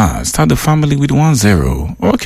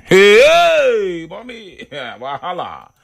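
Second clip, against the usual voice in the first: laughing; 9 semitones higher, slower than usual. Real, not acted. Reacting to listener comment.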